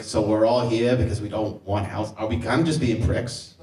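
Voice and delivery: put-on thick Boston accent, lightly done; a hint of a Southie Boston local. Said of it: "like, a thick Southie Boston accent".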